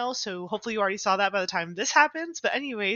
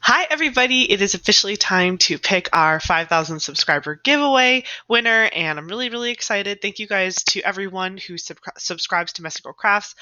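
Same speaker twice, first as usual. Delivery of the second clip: loud, bright giveaway host; hyped giveaway announcement; 7 dB louder than usual. Pretend. Hosts giveaway as other Ashley.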